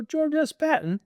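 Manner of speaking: high amazed question. Retold or imitated. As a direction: sound floored by the name. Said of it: "I go".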